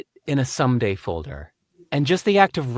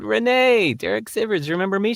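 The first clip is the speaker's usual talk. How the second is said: put-on higher-pitched hail of an old acquaintance; excited greeting; 9 semitones higher than usual. Man greeting an old friend he ran into, excited. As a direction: call out in delighted recognition.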